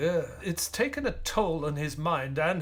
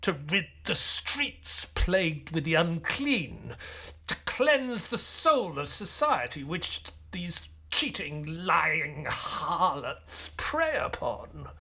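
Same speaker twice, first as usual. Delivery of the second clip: sinister. Acted. Watson reveals dark killer motive.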